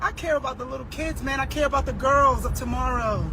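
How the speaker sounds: soft sincere. Real, not acted. Sudden soft sincere turn.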